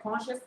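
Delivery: "কনশাস" in two syllables, kon-shas; correct pronunciation. Shown as a demonstration. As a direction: say "কনশাস" with a sh sound, no i. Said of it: "উচ্চারণটা কি হবে?".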